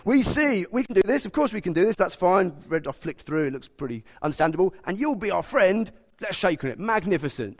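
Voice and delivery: high, eager, cocky voice; overconfident Israelites. Retold or imitated. Preacher mocking the overconfident Israelites, high and eager. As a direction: gush like a people sure they can do it all. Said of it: "That's how they responded".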